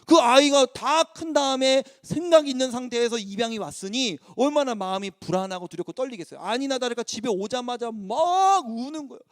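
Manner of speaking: ordinary talk, nothing marked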